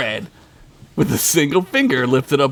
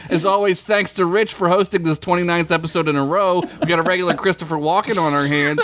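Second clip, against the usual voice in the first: mock show sign-off; 2 semitones higher than usual. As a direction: rattle off thanks like a show host. Mock show sign-off after jokes.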